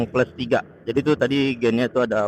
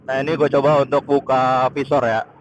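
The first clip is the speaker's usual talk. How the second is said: raised voice against wind noise; shouting over wind; 3 semitones higher, 4 dB louder than usual. Real, not acted. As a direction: call out over the rushing wind. Visor opened, strong wind.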